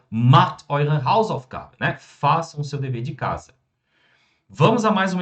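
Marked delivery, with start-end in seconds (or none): 0.1-1.8 very slow, every German word laid out clearly; slow model sentence. Shown as a demonstration. Teacher modelling German for students, very slow and clear. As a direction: spell the sentence out slowly for the class. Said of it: "É isso que eu diria".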